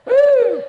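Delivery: very high, loud whoop; excited whoop. Real, not acted. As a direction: let out a joyful woo. Preacher whoops to crowd.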